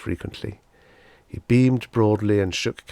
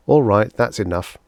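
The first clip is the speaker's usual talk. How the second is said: fed up; 2 semitones higher, 6 dB louder than usual. Acted. Cutting off the wall reminder.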